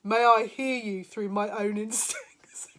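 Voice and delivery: slow reading breaking into a laugh; amused slow read; laughing while reading. Real, not acted. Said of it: "this is so funny".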